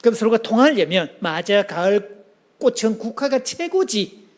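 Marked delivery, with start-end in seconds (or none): 1.2-4.3 agreeing warmly. Shown as a demonstration. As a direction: chime in to agree. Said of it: "그렇게 말해놓고".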